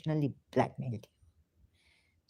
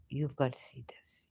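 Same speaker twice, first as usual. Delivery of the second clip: whispered urgently under the breath; soft unvoiced urging; hushed whisper; 2 semitones lower, 5 dB quieter than usual. Real, not acted. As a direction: lean in and whisper it.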